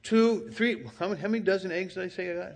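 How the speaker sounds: high, indignant protest at the door; high-pitched mock outrage at security; indignant customer. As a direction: wave the receipt, outraged. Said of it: "And I would say".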